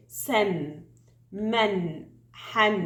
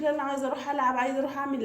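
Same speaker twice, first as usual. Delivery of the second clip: mock child's whine on a raised, sustained pitch; bored child; 3 semitones higher, much faster than usual. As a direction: play a fed-up kid begging off to go play. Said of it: "هيزهق ويقولك". (تقليد طفل زهقان بيتذمر)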